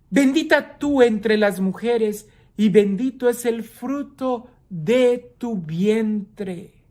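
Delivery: grito contenido de predicador, agudo y alargado; exclamación proclamada. Acted. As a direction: proclama la bendición alargando el final. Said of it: "exclamó a gritos, dice el Evangelio, a gritos". (exclamación solemne, sin llegar a gritar)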